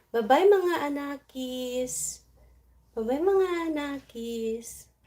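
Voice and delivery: slow high pet voice bidding goodbye; pet's voice. Acted. Voicing pet saying goodbye.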